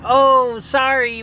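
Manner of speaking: high, bright sorry from the cashier; cashier's high apology for no ice; mock apologetic clerk. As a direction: play the sorry shop worker up high. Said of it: "And they're like".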